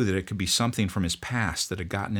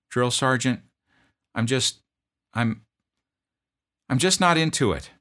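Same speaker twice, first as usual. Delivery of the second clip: put-on much higher, strained young voice; pleading private; 6 semitones higher, 6 dB louder than usual. Homesick private begging his drill sergeant, high plea. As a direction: plead like a scared recruit.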